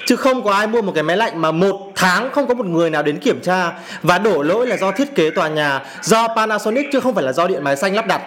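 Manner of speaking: angry. Real, not acted. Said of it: "cái cảm xúc của mình nó rất là dữ dội".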